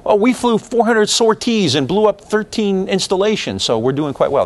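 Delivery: a hint of a pleased bureaucrat reading numbers; smug McNamara. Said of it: "This is kind of how McNamara sees it".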